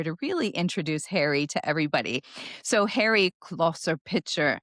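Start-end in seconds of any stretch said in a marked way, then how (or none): 2.6-4.6 mock German accent. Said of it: "I don't know why I have to say it with that accent".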